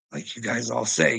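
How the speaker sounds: ordinary talk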